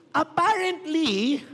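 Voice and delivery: stretched slow with a rising end; a slow, teasing apparently; drawn-out apparently. Acted. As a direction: dangle the word to tease the crowd. Teasing build-up again.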